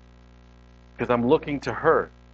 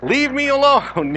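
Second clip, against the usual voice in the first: high, slow mock plea; little kitten; 10 semitones higher, 4 dB louder, slower than usual. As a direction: squeal it like a feeble little kitten. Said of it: "I felt more like a little kitten".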